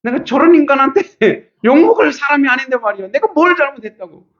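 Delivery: high-pitched mock wailing complaint; retold tearful protest with a laugh breaking in; indignant, wronged wail. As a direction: pour out the injustice in a hammed-up high whine. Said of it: "분하고 서러워서".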